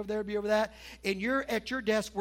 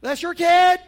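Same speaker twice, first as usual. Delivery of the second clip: much louder and higher, fed-up yell; exasperated shout; 8 semitones higher, 16 dB louder, slower than usual. Retold or imitated. Parent yelling at spouse about their kid, loud and fed up. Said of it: "ever said that to your spouse".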